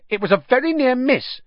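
high, tense schoolboy voice; a frightened boy holding his ground; nervous schoolboy. Acted. Ernie's voice in the story.

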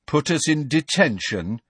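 high, mocking challenge; daring taunt. A narrator's reading. Fred cuts off Hermione's threat, taunting. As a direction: goad them to try it. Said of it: "in an I'd like to see you try it voice".

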